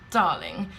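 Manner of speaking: a hint of lofty disbelief at the very idea; disdainful husband. Husband looks up from phone to answer wife, mildly disdainful. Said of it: "looks up from his phone and goes".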